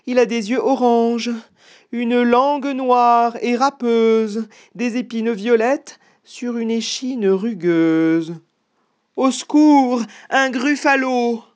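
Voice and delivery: high, loud gasping alarm; terrified mouse. Acted. Mouse suddenly facing the real monster, high and terrified. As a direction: cry out in high-pitched horror, drawing out the details.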